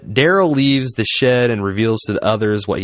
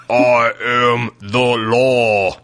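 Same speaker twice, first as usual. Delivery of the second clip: slow, drawn-out growl of a tough lawman; imitating Judge Dredd; Judge Dredd line; much slower than usual. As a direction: play the stern movie cop. Judge Dredd catchphrase quoted.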